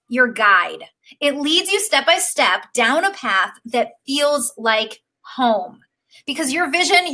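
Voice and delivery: slow, earnest read-aloud; heartfelt reading. Real, not acted. Coach reading her course pitch aloud, slow and earnest. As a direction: read it like it moves you. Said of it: "I just wanna read this little thing I wrote".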